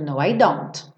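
I don't closed with a clear final T; teacher adds the finishing T on don't; final T released. Shown as a demonstration. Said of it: "eu faço aquele T de acabamento".

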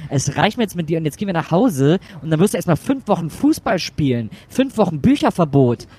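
the mother finally blows up; angry outburst. Acted. Mother loses patience. (wütend ausbrechend)

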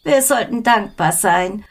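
put-on slow, soothing old lady; smooth things over sweetly; conciliatory. A narrator's reading. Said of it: "fuhr Frau Barger versöhnlich fort".

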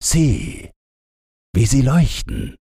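lightly voiced reindeer. A narrator's reading. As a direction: show the lights in awe. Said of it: "sagte das Rentier".

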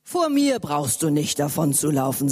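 low man's voice, gently; big stranger. Acted. Stranger calms the frightened boy, low and gentle. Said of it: "sagte der Mann".

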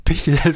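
Pichel with the L swapped in for a K sound; repeating the clip's funny Pichel with an L; quoting the misspoken word. Retold or imitated.

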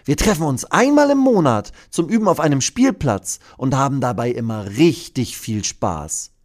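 leicht höher gesprochene Mathilda; leichtes Mädchen. Acted. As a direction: ein Hauch von eifrigem Mädchen. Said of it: "erklärt Mathilda dem Dino". (leicht gespielte Mädchenstimme)

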